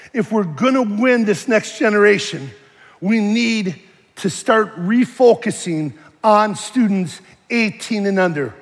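usual speaking voice

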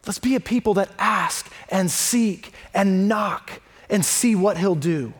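ordinary talk, nothing marked

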